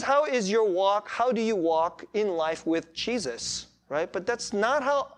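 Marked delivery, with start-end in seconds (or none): 0.0-3.7 slower, deliberate "how is your walk"; spelled-out meaning. Shown as a demonstration. Preacher explaining the jargon to newcomers, spelled out slowly. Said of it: "what we mean is".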